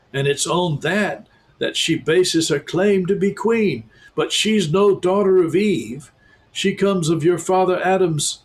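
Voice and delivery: high, eager little beaver voice; a proud beaver bursting to tell the news; talking beaver. A narrator's reading. Beaver telling the children about Aslan, high and eager.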